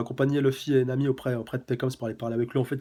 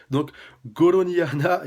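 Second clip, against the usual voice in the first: mock cry; 4 semitones higher, 5 dB louder, slower than usual. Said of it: "son cri".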